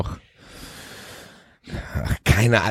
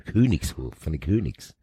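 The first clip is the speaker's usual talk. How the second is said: laughing; 6 semitones lower, 9 dB quieter than usual. Real, not acted.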